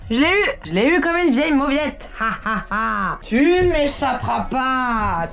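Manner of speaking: hammed-up gloating villain; slow mock-evil taunt with a cackle; sneering panto villain. Moque l'araignée vaincue. (méchant de pantomime ricanant)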